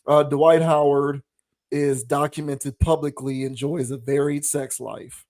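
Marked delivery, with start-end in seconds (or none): 3.4-5.2 lightly pointed emphasis on "varied"; stress on VARIED. Real, not acted. Co-host hinting at the player's private life, stressing "varied". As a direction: lean knowingly on the word "varied". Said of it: "emphasis on the word varied".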